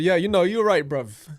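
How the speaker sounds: loud, high mock British "you're right, bruv"; a jokey fake London twang; playful put-on British accent. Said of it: "That's not really British".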